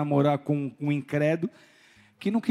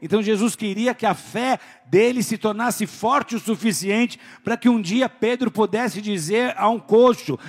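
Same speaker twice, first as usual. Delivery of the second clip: ordinary talk, nothing marked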